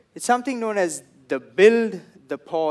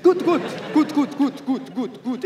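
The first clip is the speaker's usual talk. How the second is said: repeating good; 8 semitones higher than usual. Retold or imitated. Security guys keep repeating good, high chant fading. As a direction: say good again and again, trailing off. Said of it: "they keep saying good".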